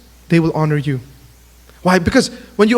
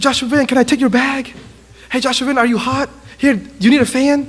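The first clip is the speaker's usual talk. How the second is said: eager, slightly raised fan voice; excited fan; 4 semitones higher than usual. Retold or imitated. Huge fan offering to serve his idol, excited. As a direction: imitate a fan keen to help his idol. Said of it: "he's just so excited".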